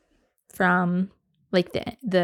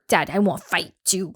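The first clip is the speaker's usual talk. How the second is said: put-on toddler voice. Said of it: "he'll say".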